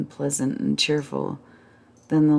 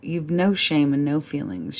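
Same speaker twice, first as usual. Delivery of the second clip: tearful reproach. Acted. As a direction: rail at them, close to tears. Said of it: "she began to cry".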